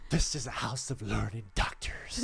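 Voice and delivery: Jack Nicholson line. Retold or imitated. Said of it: "Jack Nicholson".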